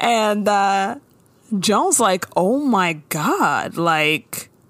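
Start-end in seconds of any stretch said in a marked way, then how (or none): 2.4-3.8 mock fed up, exasperated, fully annoyed. Retelling a character's reaction to a scene: imitating annoyed Joan. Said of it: "full annoyed".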